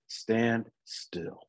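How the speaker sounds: God telling an overwhelmed believer, softly; calm command. Retold or imitated. God instructing the overwhelmed, calm and soft. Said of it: "God just says".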